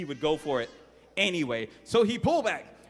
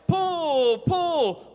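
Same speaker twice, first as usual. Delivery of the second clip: high, loud bossy shout; yelled command; 13 semitones higher, 6 dB louder than usual. Acted. Little sister shouting at her brother to pull the wagon, loud. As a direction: bark it like a bossy little girl. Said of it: "she yelled".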